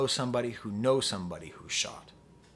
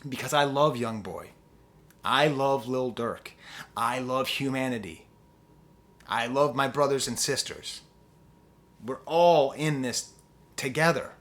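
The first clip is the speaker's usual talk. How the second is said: sincere; 3 semitones lower than usual. Real, not acted. Sincere softer confession.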